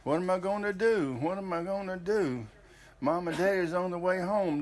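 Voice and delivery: lightly voiced tearful young wife; a mild hint of her panic on the phone; upset Faye, retold. Husband retelling his new wife's tearful call, mildly upset. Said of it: "she was crying".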